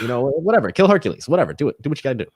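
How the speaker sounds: flippant theatrical villain menace; Hades villain voice. Shown as a demonstration. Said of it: "you're talking like this".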